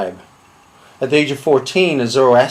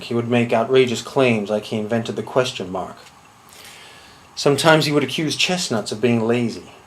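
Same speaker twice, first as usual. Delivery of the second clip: low, measured deadpan storytelling; deadpan confession; 3 semitones lower than usual. Acted. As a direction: recount the absurd as perfectly ordinary. Deadpan absurd childhood confession monologue.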